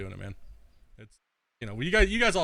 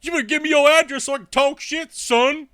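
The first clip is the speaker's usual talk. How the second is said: higher, louder whiny troll voice; mocking a troll; 11 semitones higher, 8 dB louder than usual. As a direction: sneer it like a tough-talking kid. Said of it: "It's like".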